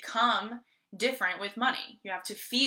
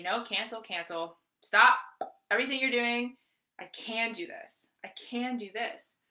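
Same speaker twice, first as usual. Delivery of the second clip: self-correcting affirmation; 2 semitones higher than usual. Shown as a demonstration. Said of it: "just catch yourself when you say".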